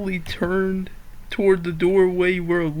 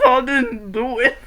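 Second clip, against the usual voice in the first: teary protest; 2 semitones higher than usual. Retold or imitated. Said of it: "His eyes watered".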